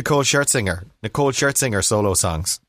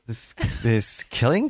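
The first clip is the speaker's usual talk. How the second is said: questioning upspeak; slower than usual. Shown as a demonstration. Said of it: "questioning inflection at the end of all my sentences".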